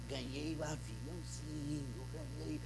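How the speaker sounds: put-on low, slow, softly sung-out child's chant; a child quietly celebrating his gift; happy little boy. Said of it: "começou a fazer festa".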